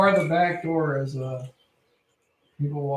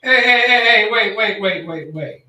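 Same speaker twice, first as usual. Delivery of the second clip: calling out; 3 semitones higher, 5 dB louder than usual. Real, not acted. Player calls to stop fight.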